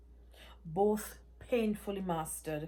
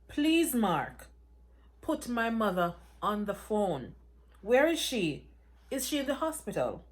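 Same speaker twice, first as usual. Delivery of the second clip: louder, rising panic; frantic pleading; 3 semitones higher, 4 dB louder than usual. Acted. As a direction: beg him to tell her where her mother is. Daughter begs news of her mother.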